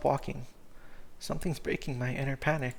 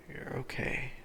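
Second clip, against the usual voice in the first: soft whispered comfort; 7 dB quieter, slower than usual. Acted. Cooper hushing scared Cyrus, whispered soothing. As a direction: whisper it gently, almost no voice.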